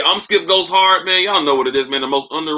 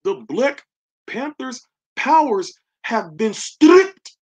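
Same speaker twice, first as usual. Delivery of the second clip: slow, higher mock Wakanda accent announcing; 8 semitones higher, much slower than usual. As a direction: drawl it out in a joking Wakanda accent. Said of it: "in the Wakanda accent".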